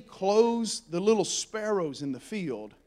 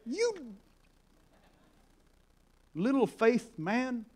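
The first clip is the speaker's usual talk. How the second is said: softer, drawn-out mock scolding; rebuke; 2 semitones higher, 7 dB quieter, slower than usual. Jesus to sinking Peter, slowly chiding. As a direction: let it out slowly after the outburst. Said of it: "He rebukes him".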